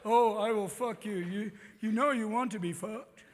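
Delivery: slow, wooden, lightly voiced porn line; mock stilted seduction; bad porn acting. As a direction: deliver it like a terrible porn actor. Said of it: "the acting is always fucking awful".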